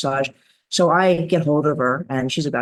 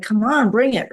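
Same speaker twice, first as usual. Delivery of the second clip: eager dare; 7 semitones higher than usual. Retold or imitated. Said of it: "I'm like".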